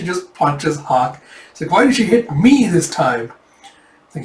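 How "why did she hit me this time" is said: high, aggrieved mock complaint; baffled protest. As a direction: protest an undeserved punch. Punched Hawk protests.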